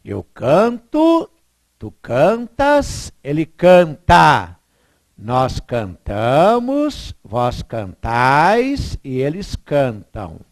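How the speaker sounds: slow, deliberate conjugation chant; slow recitation. Shown as a demonstration. Teacher to students, reciting the conjugation slowly. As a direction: recite each form slowly like a drill. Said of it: "Fica assim, ó".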